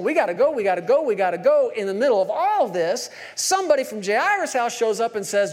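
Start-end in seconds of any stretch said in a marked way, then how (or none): 0.0-1.7 urgent hurry. Retold or imitated. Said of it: "Jairus is going".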